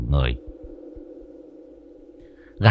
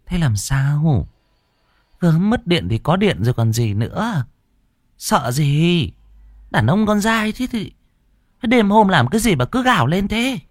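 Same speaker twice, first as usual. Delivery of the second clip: worried mother; 10 semitones higher than usual. Acted. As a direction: fuss over the frightened son, half worried, half scolding. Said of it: "Bà Linh nhìn con lo âu".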